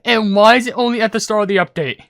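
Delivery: loud, high-pitched exasperation; exasperated rant. Real, not acted. Ranting at unwanted game pulls.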